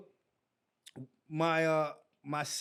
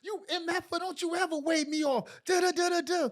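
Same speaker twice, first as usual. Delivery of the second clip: retold cussing out; 8 semitones higher than usual. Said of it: "he cussed me out".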